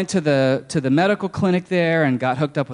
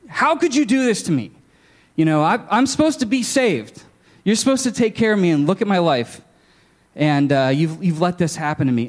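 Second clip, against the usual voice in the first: cursing God; 3 semitones higher than usual. Retold or imitated. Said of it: "basically to curse him".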